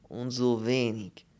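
slow, heavy foreign voice in broken German; slow Polish character voice. Acted. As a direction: drag the words out like a doleful Pole. Pole speaking broken German.

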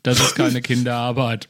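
a laughing mock shout back at the son; retold retort. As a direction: snap back at the kid, half laughing. (lachend nachgespielter Ausruf)

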